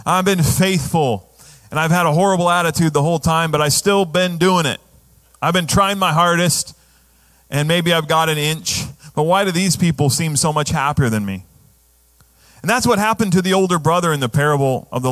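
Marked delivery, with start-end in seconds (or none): 0.0-11.5 a hint of a self-pitying believer; mildly whiny woe-is-me voice; whiny complainer. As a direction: grumble like the put-upon older brother. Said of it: "the young goat mentality".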